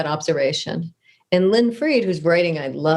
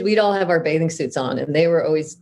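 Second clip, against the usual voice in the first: ordinary talk, nothing marked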